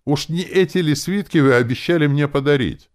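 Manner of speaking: high-pitched, loud female-character shriek; thin yell. A narrator's reading. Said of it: "тоненько заорала".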